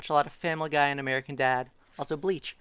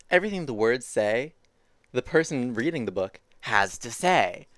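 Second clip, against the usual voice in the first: story read-aloud. A narrator's reading. Adult explains how books work to a child, measured read-aloud. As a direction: lay out the rule for a listening child. Reads picture book aloud.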